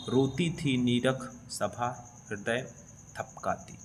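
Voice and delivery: slow, measured verse reading; poem recitation. Acted. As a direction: recite line by line, slowly, letting the ends sink. Reads the poem aloud. (धीमी लय में कविता पाठ)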